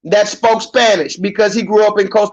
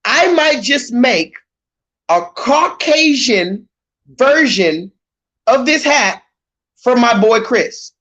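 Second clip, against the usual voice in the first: slow, each word weighed and drawn out; slow emphatic repeat; 3 semitones higher, slower than usual. Shown as a demonstration. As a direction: spell it out slowly for emphasis. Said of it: "I'll say it again".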